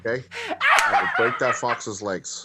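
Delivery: slow, deliberate mock De Niro threat; Tony De Niro. Warning about the fox, mock De Niro impression. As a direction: spell out the threat slowly as De Niro. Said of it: "Tony De Niro".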